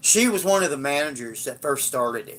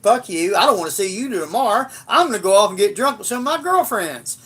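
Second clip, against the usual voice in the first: mildly heated, higher retold rant; imitating mad girlfriend; 4 semitones higher, 3 dB louder, faster than usual. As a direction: mimic her angry parting shot with a touch of temper. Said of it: "she got mad at me".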